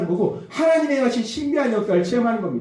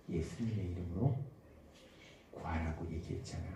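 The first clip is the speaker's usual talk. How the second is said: very soft, low and hushed; small, still voice; 19 dB quieter than usual. Acted. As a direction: murmur it low, like the Holy Spirit's gentle prompting. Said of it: "아주 작은 세미한 음성으로". (아주 작고 세미한 음성으로)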